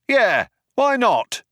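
high, slow calling reply; shouted agreement. A narrator's reading. Second cop agrees to shoot again, shouted. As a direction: call back agreement, drawn out.

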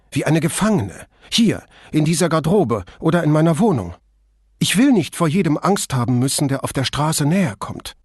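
a distressed singer who feels trapped; Flavia, distressed. Acted. Flavia continues her complaint.

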